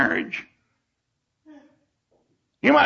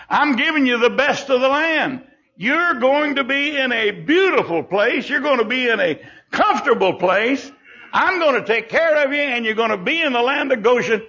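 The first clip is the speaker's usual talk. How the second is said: raised, lively voice of a generous provider; delighted promise; 4 semitones higher than usual. Acted. Joseph promising his family the best land, delighted.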